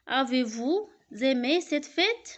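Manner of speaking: slow question, rising on "fête"; question intonation. Shown as a demonstration. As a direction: lift the voice up on "fête". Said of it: "C'est une phrase interrogative".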